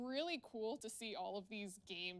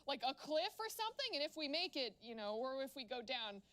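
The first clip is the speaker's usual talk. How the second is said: excited retelling; 4 semitones higher than usual. Retold or imitated. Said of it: "'cause I'm like".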